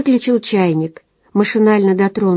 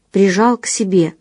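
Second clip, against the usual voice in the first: usual speaking voice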